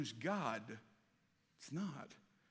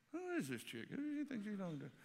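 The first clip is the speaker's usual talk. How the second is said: skeptical aside; 4 semitones higher, 6 dB quieter, faster than usual. Retold or imitated. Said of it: "And I was like".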